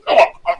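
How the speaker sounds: gagging oh oh, like choking on a gun; imitated choking. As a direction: mimic choking sounds lightly. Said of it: "he's choking like that".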